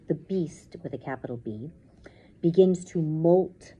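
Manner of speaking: dramatic reading with punched openings; suspenseful story narration. A narrator's reading. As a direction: describe the nightmare beast with weight. Reads story aloud.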